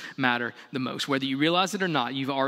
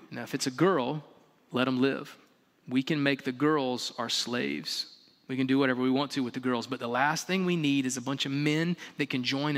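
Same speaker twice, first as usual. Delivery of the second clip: a hint of a sly king, softer and lower; scheming Pharaoh; 3 semitones lower, 3 dB quieter than usual. Pharaoh quietly instructing the two midwives, softer sly king.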